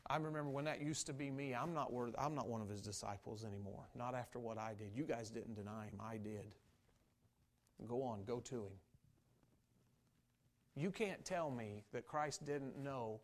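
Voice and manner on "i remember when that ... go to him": soft, low, ashamed withdrawal; heartbroken. Acted. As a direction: quietly count yourself out, sinking lower as you go. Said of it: "Peter was sitting there heartbroken".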